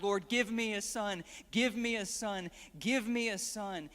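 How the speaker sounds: insistent plea, pressed harder as it repeats; begging prayer. Retold or imitated. Hannah praying year after year, begging insistently. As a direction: implore God over and over. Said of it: "begging and pleading year after".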